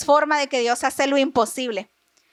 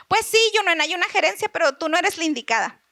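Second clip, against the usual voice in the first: higher opening, easing down to the letdown; lightly imitated nice-as-pie refusal; mock-sweet manager; 3 semitones higher than usual. Manager turning down an employee for promotion, mock-sweet. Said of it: "muy linda, me dijo".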